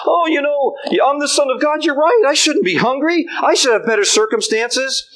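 Satan mocking with fake sympathy; mocking doubter voice. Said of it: "So the doubts come along".

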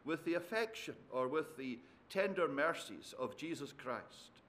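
soft, measured Bible reading; solemn reading from an epistle; scripture reading. Acted. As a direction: read the passage aloud softly and reverently, phrase by phrase. Reads scripture aloud to congregation.

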